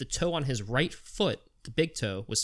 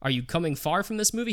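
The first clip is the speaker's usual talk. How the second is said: put-on higher, questioning old lady voice; mock old lady; 5 semitones higher than usual. Storyteller voicing Maureen questioning Vlad, lightly higher pitch. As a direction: chirp the questions like a confused grandma.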